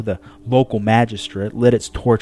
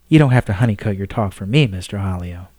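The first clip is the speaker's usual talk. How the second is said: quick, lightly voiced woman; frank Pope. Pope tells the astronomer to speak plainly, brisk. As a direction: urge him to speak plainly.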